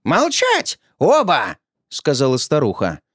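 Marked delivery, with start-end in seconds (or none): 0.1-1.6 put-on old woman's shrill command. Old woman silences both.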